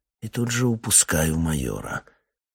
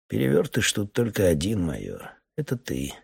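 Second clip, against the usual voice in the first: serene; 3 semitones higher than usual. Acted. Captain answers the raging major, serenely calm. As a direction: say it as if nothing could touch you. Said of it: "говорю безмятежно".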